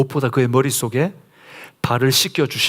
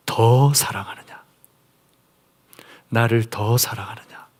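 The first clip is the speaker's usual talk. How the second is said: hushed whisper; 2 semitones lower than usual. Acted. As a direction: lean close and breathe the words. Jesus asks Peter again, intimately. (속삭이듯 조용히 묻는 목소리)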